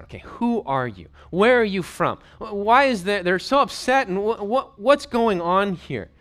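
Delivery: a rattled governor who can't get an answer; flustered questioning. Acted. Flustered Pilate questions Jesus.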